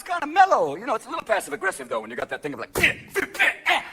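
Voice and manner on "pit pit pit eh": innocent soccer player. Acted. Passive-aggressive soccer player.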